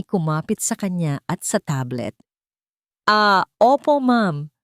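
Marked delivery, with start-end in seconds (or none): 3.1-4.5 quick flustered answer. A narrator's reading. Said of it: "mabilis na sagot ni Maya".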